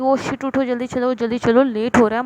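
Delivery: mild panic, pitched a little up; oh no, we're running late; sudden urgency. Acted. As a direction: hurry someone up, lightly acted. Character suddenly remembers meeting, rushes lover.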